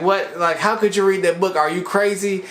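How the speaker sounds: upset outburst. Retold or imitated. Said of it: "Keon gets upset".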